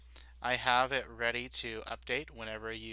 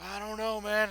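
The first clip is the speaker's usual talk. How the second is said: doubtful guard; 11 semitones higher than usual. Acted.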